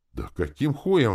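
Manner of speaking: high, loud exclamation of protest; exclaiming. A narrator's reading. Spirit Тыц objecting to playing the harp, exclaiming. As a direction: burst out with it, pitched right up. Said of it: "воскликнул Тыц".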